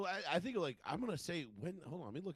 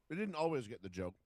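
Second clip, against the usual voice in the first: talking with a mouth full of chocolate; chewing through the words. Real, not acted. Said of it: "sorry, I'm eating a Cadbury egg".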